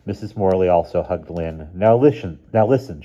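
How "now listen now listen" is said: bright, pushed-cheerful mother's reassurance, a bit louder; a mom putting on a brave happy face; forced cheerfulness. A narrator's reading. Mother bidding her daughter goodbye, forced cheerful. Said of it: "in a kind of forced cheerfulness".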